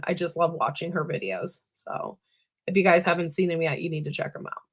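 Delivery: raspy, worn-out voice; talking through a sore, hoarse throat. Real, not acted. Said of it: "I sound like I've smoked, like, ten packs of cigarettes".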